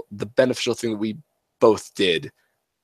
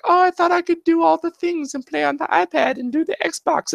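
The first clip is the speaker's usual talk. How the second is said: put-on much higher, whining kid voice; whiny daughter. Grounded daughter to dad, high whiny complaint. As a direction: plead like a disappointed child. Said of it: "She's like".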